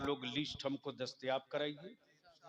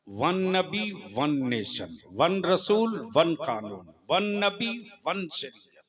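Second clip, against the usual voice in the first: loud rhythmic slogan chant; booming political rally speech; 10 dB louder than usual. Real, not acted.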